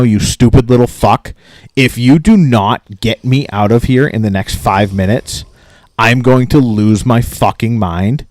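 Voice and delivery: retold irate rant, slowing for the threat; measured fury, drawn out toward the end. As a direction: re-enact a customer at the end of his patience. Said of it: "I am getting fucking irate".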